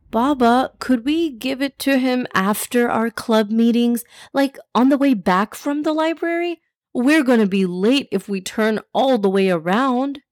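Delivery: put-on a touch of a worried kid; pleading child. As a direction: plead mildly, like a child to dad. Child pleads not to turn back.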